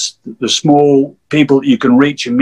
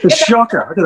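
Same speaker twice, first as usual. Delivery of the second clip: laughing; 8 semitones higher, faster than usual. Real, not acted. Laughing about his frog.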